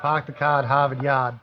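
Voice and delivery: Boston accent with dropped R's; Boston accent, no R's at all. Shown as a demonstration. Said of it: "We have Boston accent".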